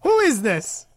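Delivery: whispered question; hushed aside to friends. Real, not acted. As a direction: whisper it under your breath. Whispering to the others.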